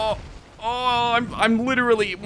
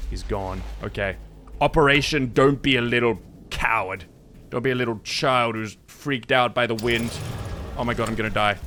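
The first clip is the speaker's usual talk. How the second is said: soft, low murmur while hiding; hiding from the monster, hushed; hushed self-talk; 12 semitones lower, 5 dB quieter than usual. Real, not acted. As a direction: keep it under breath so he won't hear. Hiding, whispering to himself.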